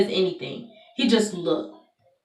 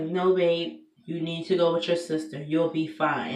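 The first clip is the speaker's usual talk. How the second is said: softer, gentle reassurance; lightly voiced calm husband; reassuring husband; 5 dB quieter than usual. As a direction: soothe her like a husband would. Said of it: "he was like".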